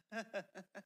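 quiet, forced awkward chuckle; polite, uneasy fake laugh. Shown as a demonstration. Listener humoring a friend faking an Irish accent, awkward laugh. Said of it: "I give him the awkward laugh".

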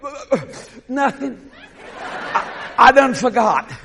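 soft, hesitant mumbled answer; tongue-tied, comic hesitation; sheepish stammer. Acted. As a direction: falter as if your mind went blank. Tongue-tied before God in retold chat.

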